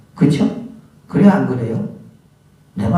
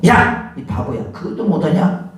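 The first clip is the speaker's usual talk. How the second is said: mock harsh scolding; 6 semitones higher than usual. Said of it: "막 그러면서 막 욱박질하면서".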